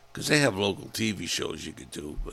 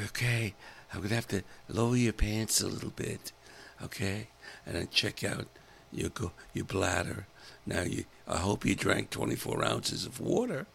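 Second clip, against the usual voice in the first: sexy nurse voice; 4 dB quieter than usual. Retold or imitated. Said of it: "very sexy voice".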